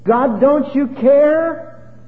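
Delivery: rising, pleading rush of complaint, slowing on the last care; fussing, crying complaint. Retold or imitated. Believer in trouble complains to God, building pleading cry. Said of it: "Fussing and crying and saying".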